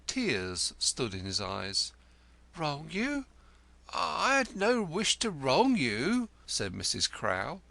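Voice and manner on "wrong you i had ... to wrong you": 1 sarcastic. A narrator's reading. Wife mocks lodger's protest.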